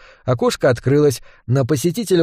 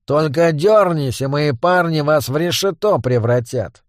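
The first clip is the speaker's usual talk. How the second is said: goblin boss. Acted. Гоблин-главарь отдаёт приказы.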